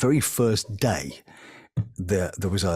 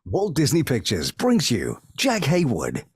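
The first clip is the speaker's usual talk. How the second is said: higher-pitched film presentation voice; Disney Channel announcer; 4 semitones higher than usual. Shown as a demonstration. Former channel voice demonstrating a film introduction, announcer voice. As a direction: announce it grandly, like a trailer. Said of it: "being the voice of the Disney Channel".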